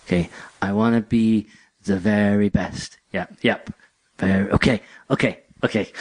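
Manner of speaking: lightly voiced girl reciting the lyric under her breath; a hint of a girl speaking the song instead of singing it; talking along to the song. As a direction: mumble the words along with the tune, half to yourself. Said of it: "She was just talking along".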